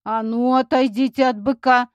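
loud threatening call from afar; menacing shout. A narrator's reading. Farmer shouting at the kids to leave the bull, loud and threatening. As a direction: bark a warning to get away. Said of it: "раздался грозный окрик".

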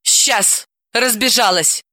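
mildly outraged comeback; indignant. Acted. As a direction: snub him crossly. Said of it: "возмутилась Далила".

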